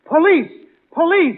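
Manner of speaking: a mock holler of "Police!". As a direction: holler "Police!" like calling the cops. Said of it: "Are you hollering".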